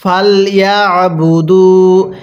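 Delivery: very slow, drawn-out melodic recitation; slow chanted tajweed reading; Quran recitation. Shown as a demonstration. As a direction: recite each syllable long and sung. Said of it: "কিভাবে পড়তে হবে?".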